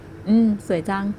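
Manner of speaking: soft, slow and low-key; soft deep voice. Acted. Man gazing at the girl, soft tender murmur. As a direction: murmur it gently, meaning her. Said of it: "เสียงนุ่มทุ้มที่ดังขึ้น".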